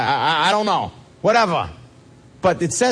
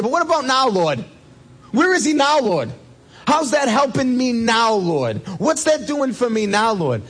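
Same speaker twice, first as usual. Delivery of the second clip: pleading cry; 6 semitones higher than usual. Acted. Martha pleading with Jesus.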